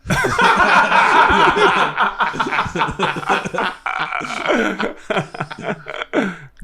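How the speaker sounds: pterodactyl. Pretend. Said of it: "I call this the reverse pterodactyl".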